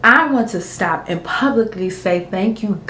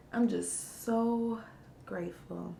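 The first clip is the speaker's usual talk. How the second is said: slow, softer voice choking up; emotional; 16 dB quieter, slower than usual. Real, not acted. Grateful seller chokes up over her first orders. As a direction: let the tears catch the words. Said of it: "Sorry to get emotional".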